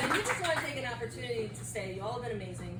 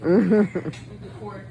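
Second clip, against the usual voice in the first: drawn-out deadpan punchline; slow punchline; 4 semitones lower, 11 dB louder, much slower than usual. Real, not acted. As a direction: stretch it out slowly.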